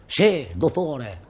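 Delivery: slow, drawn-out earnest line reading; milk it like a bit player's big moment; hammed-up heartfelt reply, each word stretched; soulful actor's delivery. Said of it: "ci ho messo tutta l'anima".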